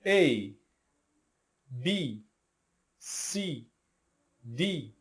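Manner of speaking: each letter said slowly and clearly, one by one; spelling out the alphabet. Shown as a demonstration. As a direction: model each letter for the class to repeat. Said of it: "vou pedir então para vocês repetirem comigo um por um". (soletrando cada letra devagar)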